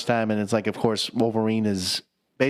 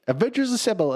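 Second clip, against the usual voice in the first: higher mock heroic call; hammed-up rallying cry; 10 semitones higher than usual. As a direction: call it out like a fan. Cap's line quoted.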